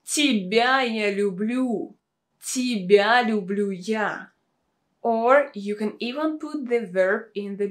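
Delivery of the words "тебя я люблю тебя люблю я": Тебя stressed to single out that person. Shown as a demonstration. Showing you love this person, stress on Тебя. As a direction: land firmly on each opening Тебя. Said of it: "you really want to show that you love this person".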